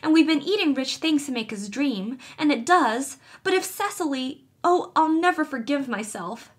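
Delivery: high, tumbling, alarmed rush; incoherent excitement. Acted. Felicity confessing to her mother, excited and alarmed. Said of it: "said Felicity incoherently".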